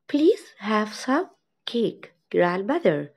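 Please have some cake, grandmother, very slow; slow model reading. Shown as a demonstration. Teacher reads the girl's line to kids, very slow. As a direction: draw every word out for the kids. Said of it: "teacher models the girl's line".

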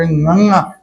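ੰੰਨਾ as "nganga", a g sound sent through the nose; nasal nga sound. Shown as a demonstration. Teacher showing pupils the letter, ੰੰਨਾ said as nasal "nganga". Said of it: "ਗੱਗੇ ਦੀ ਆਵਾਜ਼ ਉੱਤੇ ਬਿੰਦੀ".

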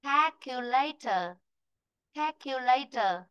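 "calculator" slowly, syllable by syllable; teacher carefully modelling "calculator"; "calculator" with an open "kae" at the start; model pronunciation. Shown as a demonstration. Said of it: "Rồi, từ này nữa này".

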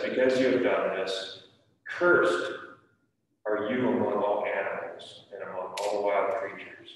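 reading the Bible aloud to the class, firm and clear; scripture reading. Acted. Teacher reads Genesis aloud to the children, steady reading voice. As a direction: read it like a lesson for kids.

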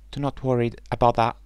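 put-on young bird, fast and eager; duckling voice. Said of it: "said the ugly duckling".

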